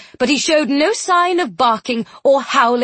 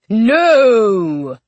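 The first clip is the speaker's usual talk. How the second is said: shouted protest; loud protest shout; 5 dB louder than usual. Acted. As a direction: cry out no in protest. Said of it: "This howl of protest".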